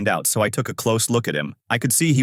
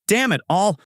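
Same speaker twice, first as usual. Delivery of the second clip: screaming; 10 semitones higher than usual. Acted. Shopping center man, getting a busy signal, frustrated cry. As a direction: blurt it out in frustration. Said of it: "gets up screaming".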